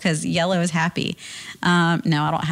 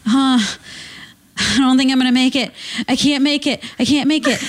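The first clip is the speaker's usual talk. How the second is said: retold urgency; 5 semitones higher than usual. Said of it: "and he said".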